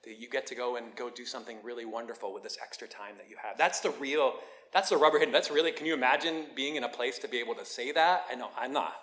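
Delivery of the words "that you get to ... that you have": soft, gentle well-wishing; quiet, heartfelt blessing; loving, sincere. Acted. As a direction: say it softly and mean it. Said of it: "the real loving, sincere thing".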